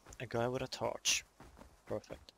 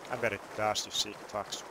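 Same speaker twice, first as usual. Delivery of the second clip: loud, mocking taunts; taunting; 4 dB louder than usual. Real, not acted. Player loudly mocks the crossbow campers with contempt. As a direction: jeer at them with contempt.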